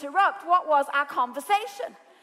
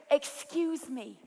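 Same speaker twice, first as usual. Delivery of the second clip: timid excuse me; 3 semitones lower, 7 dB quieter, much slower than usual. Shown as a demonstration. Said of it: "your interruption begins with".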